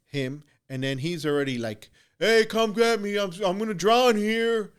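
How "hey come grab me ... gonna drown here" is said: loud, high, drawn-out imitation of a cry for help; calling for help. Struggling swimmer calls to the boat for rescue, high imitated holler. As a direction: stretch it out high, like hollering across water.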